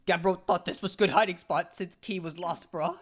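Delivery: loud, simple-minded cave dweller talk; caveman Cragnon voice. Acted. Scared Cragnon hiding from the Floro Sapiens, blunt caveman voice. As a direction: bark it out like a dim, eager caveman.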